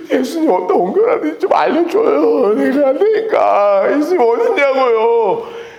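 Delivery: high, drawn-out sobbing plea; hammed-up crying voice; acted tearful pleading. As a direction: wail it as weeping Mary. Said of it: "하도 울어갖고".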